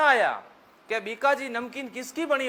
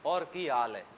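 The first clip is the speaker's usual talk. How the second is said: softer and lower, gentle and unhurried; soft friendly Rajasthani greeting; soft loving greeting; 7 semitones lower, 5 dB quieter than usual. Shown as a demonstration. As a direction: ask it lovingly, barely above a murmur. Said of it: "प्यार से बोलेंगे".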